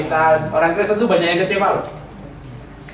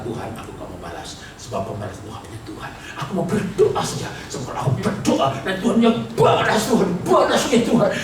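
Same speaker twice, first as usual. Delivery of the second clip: pious curse prayer; 3 semitones higher than usual. Retold or imitated. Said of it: "lalu berkata".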